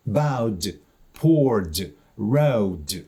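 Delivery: bowed, poured, rowed each ending in a clear voiced D. Shown as a demonstration. Teacher models verbs ending in vowel sounds, voiced D on bowed, poured, rowed. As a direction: release a ringing D at the end of bowed, poured, rowed. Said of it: "звучить дзвінко, бо нічого його не стримує".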